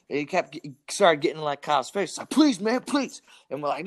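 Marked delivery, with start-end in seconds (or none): 2.3-3.2 high-pitched mock begging; exaggerated high plea; pleading beggar. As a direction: imitate a desperate panhandler, voice pushed up high.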